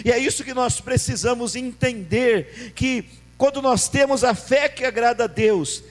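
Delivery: loud, driving sermon delivery; fervent pulpit preaching; full-force preaching. Acted. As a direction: preach it out to the congregation.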